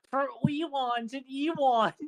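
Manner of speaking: put-on slow, drawn-out baby-talk line; slow Uwu voice. Shown as a demonstration. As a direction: stretch it like cutesy baby talk. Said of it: "you gotta go".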